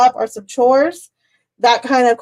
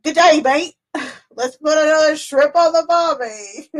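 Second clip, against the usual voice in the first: mock Australian accent, higher; a jokey Aussie twang; 4 semitones higher than usual. Teasing Melissa from the Outback, mock Australian accent. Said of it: "she's from the Outback".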